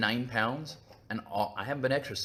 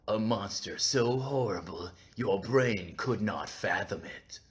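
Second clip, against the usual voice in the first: ominous Lovecraft quote; 2 semitones lower, slower than usual. Retold or imitated. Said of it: "loved to say things like".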